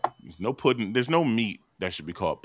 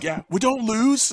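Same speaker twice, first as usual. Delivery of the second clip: higher, slow mock boast; mock Lisa; 12 semitones higher, 4 dB louder, slower than usual. Friend mocking Lisa's boast, slow and high. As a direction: play the cocky fighter, drawn out.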